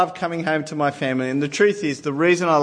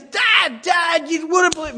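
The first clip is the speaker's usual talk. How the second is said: chattering son; 12 semitones higher than usual. Retold or imitated. Twelve-year-old son bursting out to dad, high excited shouting. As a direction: gush out the news nonstop.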